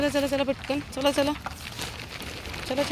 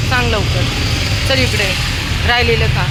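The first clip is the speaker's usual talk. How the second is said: high, louder pet-talk; coaxing pets; 5 semitones higher, 4 dB louder than usual. Real, not acted. Woman coaxing stray dogs to finish leftovers, high and loud. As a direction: keep calling and cajoling the dogs to finish.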